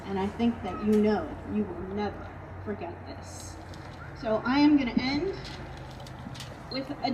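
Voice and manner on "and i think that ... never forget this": quiet heartfelt emphasis to the seniors; softer, sincere repeat. Real, not acted. Coach to seniors, repeating it softly and sincerely. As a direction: say it again, softer and lower.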